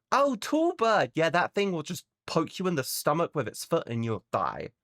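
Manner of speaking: a hint of a breezy Australian local; mock Aussie local. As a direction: cheerfully warn of deadly things. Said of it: "every creature there wants to kill you".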